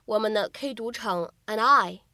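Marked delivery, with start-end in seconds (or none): 1.5-2.0 and I run together as an-daɪ; and I blended into one sound; linked and I. Shown as a demonstration. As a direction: link "and I" smoothly. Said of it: "非常自然的连读".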